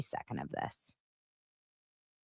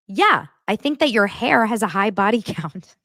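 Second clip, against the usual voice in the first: mock insult; 5 semitones higher, 5 dB louder than usual. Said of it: "Then Angie goes off".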